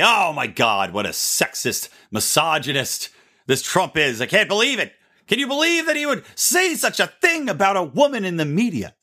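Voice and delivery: mock indignation building to high-pitched disbelief; mock outrage. Mimicking critics' response to Trump's tweet, mock outrage. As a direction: play a scandalized critic, rising to a high pitch. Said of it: "the immediate response from all of the Democrats".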